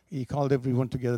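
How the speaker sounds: normal talking voice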